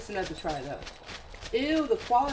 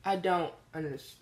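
defeated mumble; 5 dB quieter than usual. Real, not acted. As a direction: say it quietly, giving up. Repeated complaint, quiet take.

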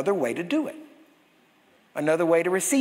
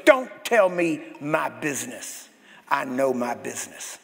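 curt dismissal; 5 semitones lower than usual. Retold or imitated. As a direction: shut him down flatly. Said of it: "And he goes".

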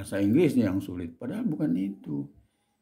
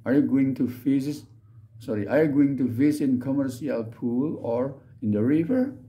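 careful English reading; 2 semitones higher than usual. Shown as a demonstration. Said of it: "Makanya saya bagi-bagi".

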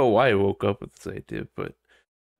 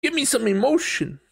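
exasperated demand. Retold or imitated. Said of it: "It's like".

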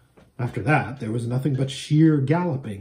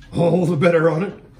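panting; 3 semitones higher, 3 dB louder than usual. Acted. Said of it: "panted Bree".

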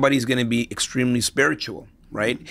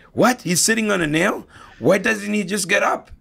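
incredulous passerby; 8 semitones higher than usual. Retold or imitated. Passerby shocked in joke.

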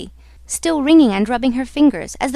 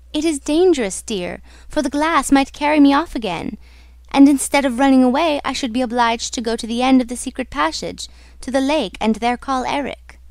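lightly voiced heroine, slightly raised pitch; anxious heroine; 3 semitones higher than usual. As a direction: explain the danger with mild unease.

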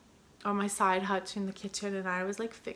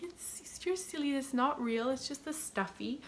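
high, light voice for the dog; pet talk; 4 semitones higher than usual. Retold or imitated. Owner reassuring jealous dog, lightly high pet talk. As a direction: coax the dog like a child.

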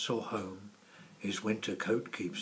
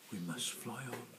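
softer with each repeat; fading away; 8 dB quieter than usual. Acted. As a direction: let it drift off into distance. Swans fade.

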